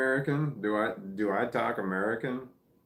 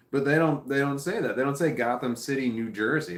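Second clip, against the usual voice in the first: emphatic; 4 semitones higher, 4 dB louder than usual. Real, not acted. Complaining about missing state.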